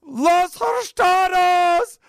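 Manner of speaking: high, slow, loud shout; loud drawn-out shout; blurted shout. Retold or imitated. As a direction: belt it out across the park. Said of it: "I blurt out".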